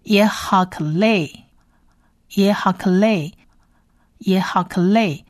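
耶哈克勒 measured out, k running into 勒; syllable-by-syllable demo. Shown as a demonstration. Teacher adding the next syllable, careful 耶哈克勒. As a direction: sound out 耶哈克勒 evenly for learners. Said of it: "所以是".

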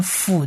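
辅 said with a light f, as "fu"; 辅 as a light Hebrew vet sound. Shown as a demonstration. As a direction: make 辅 a soft f sound, not b. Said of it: "所以它的音比较轻， 念辅的音".

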